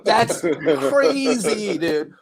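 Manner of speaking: loud, high, laughing disbelief; amazed excitement. Real, not acted. Fan ranting over an Alabama boy talking Victorian, amazed excitement. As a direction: whoop it up in real amazement. Hyped rant about friend's accent mashup.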